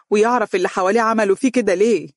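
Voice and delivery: determined. Acted. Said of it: "وقالت بتصميم".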